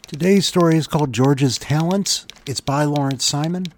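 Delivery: talking around a bite of apple; eating an apple. Real, not acted. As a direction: mouth full of apple, chewing. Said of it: "Sorry, I'm eating an apple".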